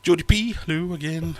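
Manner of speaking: high, loud hail; greeting a returning chat viewer, bright and loud; excited greeting. Real, not acted. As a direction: call out her name with delight.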